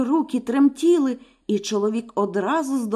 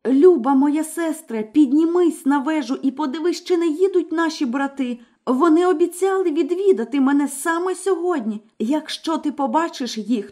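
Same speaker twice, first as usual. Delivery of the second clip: higher, urgent plea to her sister; frightened wife begging; pleading young wife; 4 semitones higher than usual. Acted. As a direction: beg her sister to watch for the brothers.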